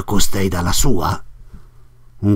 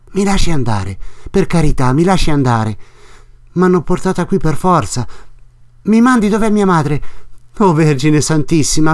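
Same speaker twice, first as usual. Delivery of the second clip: put-on a lightly higher frightened young woman; Lucia, desperate and pleading; 4 semitones higher than usual. Narrator voices Lucia begging.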